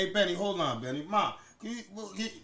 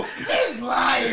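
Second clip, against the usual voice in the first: imitating mom; 4 dB louder than usual. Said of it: "you used to go".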